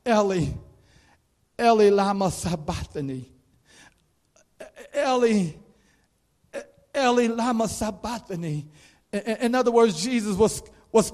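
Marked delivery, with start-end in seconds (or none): 0.1-8.7 anguished cry. Acted. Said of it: "He cried out".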